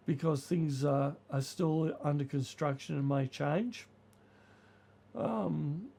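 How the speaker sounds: croaky voice from a cold; creaky voice. Real, not acted. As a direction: speak through a creaky throat. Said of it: "sorry my creaky voice".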